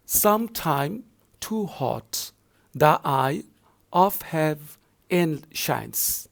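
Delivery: slow, pausing reading of the verse; poem recitation. Shown as a demonstration. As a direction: read slowly, phrase by phrase. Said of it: "moving forward".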